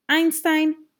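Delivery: loud, high call of the dog's name. Acted. Cece calling Einstein away from the hamster, loud high call. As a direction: call him back from the counter.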